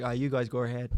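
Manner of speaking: put-on low, soft Northern Irish accent; half-hearted Northern Irish accent. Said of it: "he was sort of like".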